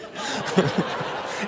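breathless silent laugh. Real, not acted. Laughing at the story.

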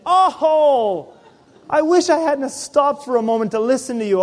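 whiny grudging complaint. Retold or imitated. Retold grudging complaint to the Spirit.

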